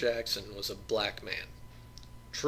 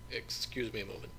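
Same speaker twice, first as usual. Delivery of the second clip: polite; 4 dB quieter than usual. Acted. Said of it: "he said politely".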